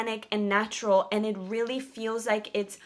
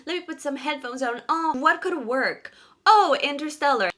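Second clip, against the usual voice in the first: retold inner voice; 6 semitones higher, 5 dB louder than usual. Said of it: "I was like".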